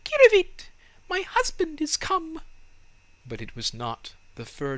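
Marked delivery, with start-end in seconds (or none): 0.0-2.4 very high, loud bird-like chirp on Kirivit; chirping swallow. A narrator's reading. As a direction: squeak it out like a swallow calling. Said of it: "the swallows flew by and said".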